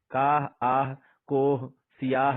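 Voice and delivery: "کاہ، آہ، کوہ، سیاہ" slow, each final h sounded. Shown as a demonstration. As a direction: sound the h at each word's end, slowly. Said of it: "دیکھیں دونوں کو ہم لکھ رہے ہیں".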